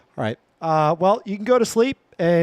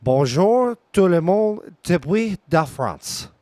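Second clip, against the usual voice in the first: French accent. Shown as a demonstration. Streamer echoes the French demo.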